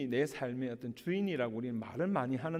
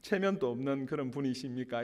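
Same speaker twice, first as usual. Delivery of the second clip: half-laughing mock reproach, louder; mock scolding; 2 semitones higher, 6 dB louder than usual. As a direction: tease the guest as the offended host. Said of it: "권사님이 아마 이렇게 이야기를 하셨을 거예요".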